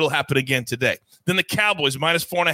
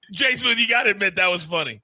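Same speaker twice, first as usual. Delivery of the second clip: laughing through the words; after laughing hard; 3 semitones higher than usual. Real, not acted. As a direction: still giggling, fast. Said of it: "let me compose myself".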